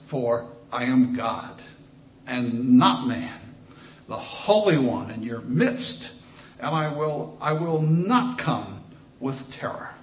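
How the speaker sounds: slow, weighty reading of God's words; solemn scripture read with drawn-out emphasis. Acted. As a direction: read the lament slowly, leaning on each phrase. Reads God's words aloud.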